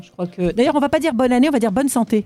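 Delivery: muffled behind a face mask; through a face mask. Real, not acted. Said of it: "vous arrivez à parler, là, vous, avec le masque".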